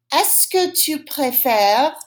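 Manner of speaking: repeat-after-me model. Shown as a demonstration. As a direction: model the question slowly, rising at the end. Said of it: "Say it after me".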